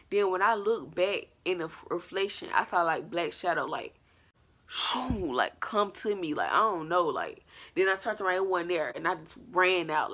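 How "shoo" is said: higher-pitched voiced whoosh; imitated whoosh. Black shadow coming at the storyteller, imitated whoosh. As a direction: make the sound of a shadow rushing in.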